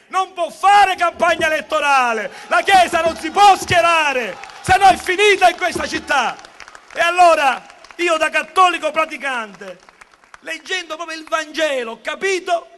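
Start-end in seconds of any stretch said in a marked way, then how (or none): 0.1-9.8 loud, insistent rally speech; booming balcony speech. Real, not acted. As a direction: declaim it to the square.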